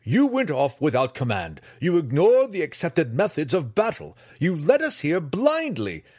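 loud, high furious tirade; shouting. Acted. Master raging at Drizzt over the dead student, shouting. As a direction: rage at him, slowing for weight. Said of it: "shouted the master".

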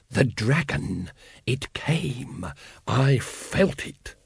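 urgent breathless whisper; hushed, awed excitement. A narrator's reading. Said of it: "he whispered".

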